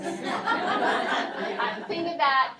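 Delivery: laughs through the words; amused laugh at her own joke; real laugh over a risky rhyme. Real, not acted. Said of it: "laughs at own joke".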